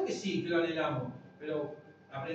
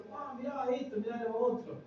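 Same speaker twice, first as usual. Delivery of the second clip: put-on excited boy; 8 semitones higher than usual. Another boy showing his cards.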